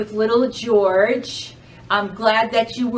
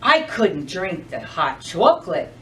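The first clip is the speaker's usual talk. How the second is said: lightly voiced snowman, calm; 5 semitones lower than usual. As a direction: give the snowman a gentle low voice. Snowman speaks in story.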